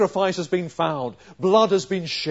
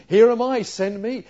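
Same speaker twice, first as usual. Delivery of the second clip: higher and louder, eager volunteering; excited; 6 semitones higher, 6 dB louder than usual. Retold or imitated. Preacher voicing Isaiah's eager reply to God, excited. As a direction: burst out with eager readiness to serve. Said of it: "He's excited".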